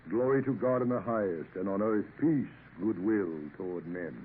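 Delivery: a captain reads Luke to himself; reading scripture aloud. Acted. Sea captain reading scripture aloud, solemn. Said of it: "reading aloud to himself".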